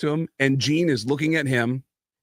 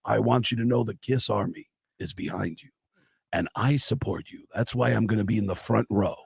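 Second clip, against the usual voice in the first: rock star impression; 4 dB quieter than usual. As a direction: do a lightly voiced rock star promising support. A rock star voiced in story.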